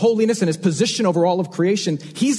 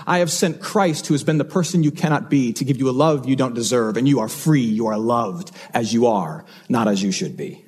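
reassuring, sinking steadily much lower; word of deliverance; 7 semitones lower than usual. Retold or imitated. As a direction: settle gently down into a low, reassuring close. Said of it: "But a word of deliverance".

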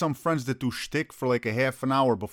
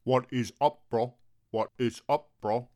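bro voice; much slower than usual. Acted. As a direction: stretch it like a chill bro. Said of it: "I got another friend that does".

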